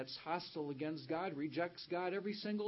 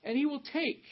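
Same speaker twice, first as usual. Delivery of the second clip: "take" raised high and loud; stress on take; 9 semitones higher, 8 dB louder than usual. Shown as a demonstration. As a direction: drive home the word "take". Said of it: "did you notice the emphasis on the word".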